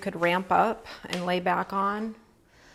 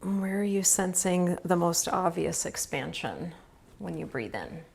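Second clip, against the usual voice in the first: calm, even yoga-nidra guidance with long pauses; unhurried phrases, leaving space to breathe; guided relaxation. Real, not acted. Yoga teacher guiding students through restful breathing, calm guided relaxation. Leads restorative breathing practice.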